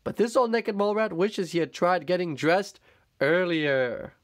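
put-on lightly grand old leader's speech; proclaiming. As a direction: address the colony grandly.

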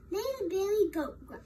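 slightly high little-goat voice; tiny little voice. Acted. Little goat answering the troll, lightly done tiny voice. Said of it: "in his tiny little voice".

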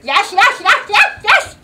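building from eager to high squeal; eager yeses. Real, not acted. Girl begging to play broomball, rising excitement.

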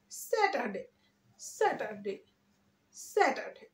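স্যাটারডে as "SAT-a-day", r left silent; smart pronunciation. Shown as a demonstration. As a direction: drop the middle r in স্যাটারডে. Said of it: "smartly উচ্চারণ করতে চাই".

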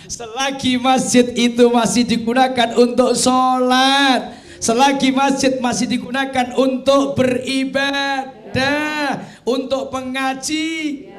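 loud, driving preacher voice; emphatic preaching. Real, not acted. Preacher urging the congregation about lasting reward, loud. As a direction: preach it hard to the hall.

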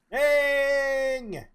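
sharp high yelp of dismay; surprised exclamation. Real, not acted. Streamer reacting to a game mishap, high startled yelp. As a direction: blurt it out, caught off guard.

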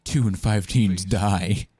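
slow, solemn anti-smoking ad read; a hint of a dramatic warning ad; narrating a mock anti-smoking advert, solemn; mock PSA voice. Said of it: "Let's do a smoking ad".

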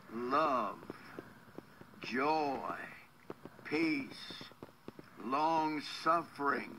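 earnest, measured prayer voice. Acted. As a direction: pray over her with steady fervour. Prays and recites scripture.

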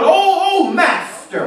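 high wailed "oh", falling away on "master"; acted crying out. Preacher showing how to scream out in prayer, high acted wail. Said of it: "But just scream out".

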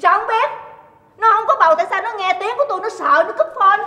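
high, indignant outburst; jealous accusation. Acted. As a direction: fire off suspicions in a temper. Jealous wife accuses husband over caller.

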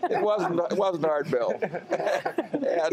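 slow, amused, laughing between words. Real, not acted. The speaker teasing Bill while laughing, slow and amused. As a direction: laugh as you tease Bill back.

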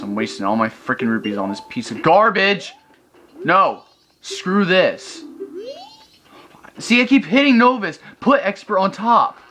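real fed-up gamer rant; raging at the game; so mad. Real, not acted. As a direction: build from grumble to high, indignant outburst. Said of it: "I'm so mad right now".

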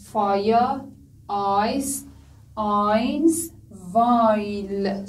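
"ai" glide drawn out in فایا، آیس، آینس، وایل; "ai" sound demonstrated. Shown as a demonstration. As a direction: model each word slowly with a clear "ai". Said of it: "صدای آی رو درست کرد".

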